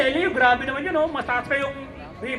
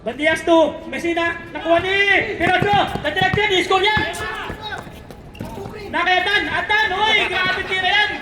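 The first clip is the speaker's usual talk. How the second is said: lively basketball commentary; name each player as the ball moves; 3 semitones higher than usual. Real, not acted. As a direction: courtside commentator following the action. Live basketball play-by-play.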